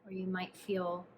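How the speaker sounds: calm, hushed instructions, leaving space to breathe; guided meditation. Acted. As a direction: guide the listener gently through a body scan, unhurried. Leads a body scan meditation.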